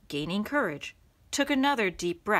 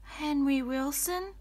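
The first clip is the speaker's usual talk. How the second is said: polite; 6 semitones higher than usual. Acted. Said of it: "replied Henry politely".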